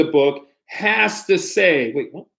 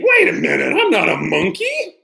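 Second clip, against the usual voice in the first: very high, squealing protest; mock alarm; 9 semitones higher than usual. Reader squeals in pretend alarm at what the book says. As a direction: shriek it in fake panic.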